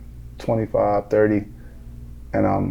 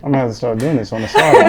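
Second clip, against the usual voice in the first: through gritted teeth; 2 semitones higher, 4 dB louder, faster than usual. Shown as a demonstration. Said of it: "you talking like this".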